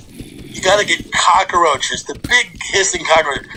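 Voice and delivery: slowed right down on each word; slow dread. Retold or imitated. Seller's warning to the buyer, slow and ominous. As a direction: drag it out like it's the horror. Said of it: "It was when he said".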